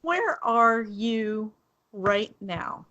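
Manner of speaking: slow, evenly spaced retold text; measured pace, dropping at the end; simple retold question. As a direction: read the text out slowly, word by word. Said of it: "I message and say simply".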